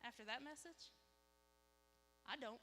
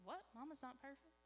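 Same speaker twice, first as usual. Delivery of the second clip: put-on small, higher child's disbelief; hushed mock astonishment, softly raised; imitated wide-eyed surprise; 4 semitones higher, 4 dB quieter than usual. Young son learns Mama has failed, imitated soft surprise. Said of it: "His eyes get big".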